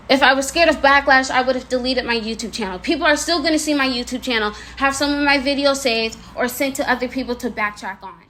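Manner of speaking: slightly slurred words around sore braces; lisping with braces. Real, not acted. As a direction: talk carefully through painful braces. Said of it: "I am lisping a lot and slurring my words".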